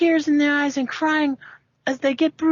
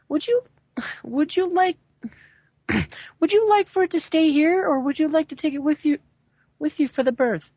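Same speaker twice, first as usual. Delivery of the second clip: polite nurse. Acted. Nurse Joy voiced higher.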